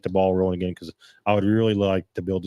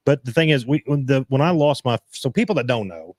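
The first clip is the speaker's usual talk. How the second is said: stumbling over words; halting, tripping restarts; stuttering; 3 semitones higher than usual. Real, not acted. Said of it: "sorry, I'm stuttering".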